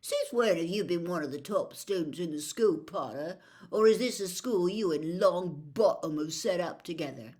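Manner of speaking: a hint of a jeering schoolboy, mocking; sneering schoolboy. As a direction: taunt him like a smug bully. Malfoy taunting Harry in corridor.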